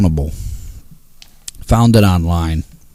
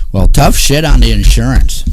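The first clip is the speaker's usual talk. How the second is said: louder, hitting tough hard; loud rant; 3 semitones higher, 4 dB louder than usual. Real, not acted. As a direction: bark it out at the insurance company. Ranting at insurance excuse.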